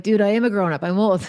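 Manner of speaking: exasperated retort. Retold or imitated. Mom tells her teen son she's already grown up, mock-exasperated. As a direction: toss it back with a laugh in the voice.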